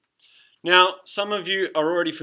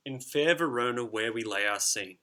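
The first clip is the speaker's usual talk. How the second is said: reciting verse; 4 semitones lower than usual. Shown as a demonstration. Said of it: "This is the opening lines of Romeo and Juliet".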